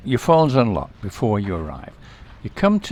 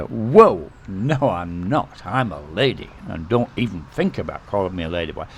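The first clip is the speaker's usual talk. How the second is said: offended protest. Retold or imitated. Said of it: "It'll be a real negative response".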